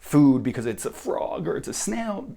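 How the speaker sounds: ordinary talk, nothing marked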